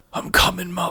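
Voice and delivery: tearful, crying, dying orc monster voice. Voicing a dying orc who sheds a tear: tearful dying words. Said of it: "He sheds a tear and he says in Orcish".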